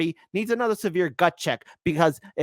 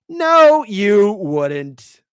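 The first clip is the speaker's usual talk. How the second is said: shouted retort; 4 semitones higher, 11 dB louder, much slower than usual. Real, not acted. Retort to the boasters.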